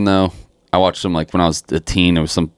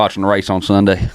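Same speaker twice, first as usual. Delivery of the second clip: put-on country-boy Southern accent; mock Southern twang; code-switched Southern. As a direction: talk like a good old Southern boy. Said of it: "I was talking Southern".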